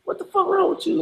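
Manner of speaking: high mock yell, dropping off at the end; a high retold holler; angry cop yelling. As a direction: bark it back like the angry cop. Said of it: "He said his exact words to me".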